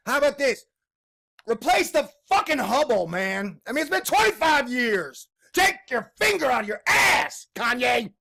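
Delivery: loud, high, heated yelling; real frustrated shouting at science; angry rant. Real, not acted. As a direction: let the anger boil over.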